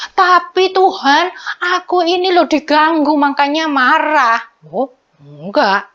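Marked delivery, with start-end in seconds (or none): 0.1-4.4 whiny excuse. Acted. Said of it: "ndak boleh disambung dengan".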